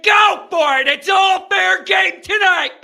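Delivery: loud, high, heated outburst; worked-up ranting shout; fired-up yell. Real, not acted. Host ranting, inviting callers to yell.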